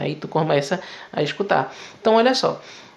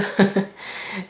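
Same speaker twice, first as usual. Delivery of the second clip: laugh; 3 dB quieter than usual. Real, not acted. Laughs after own squeaky demonstration.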